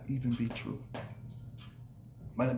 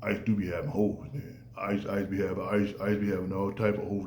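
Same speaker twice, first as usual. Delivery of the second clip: low, soft mock gossip voice; gossiping friend; 4 semitones lower, 4 dB quieter than usual. Buddy quietly gossiping about Ice to a woman, hushed. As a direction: lean in and spill the tea quietly. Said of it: "it's not my job to say".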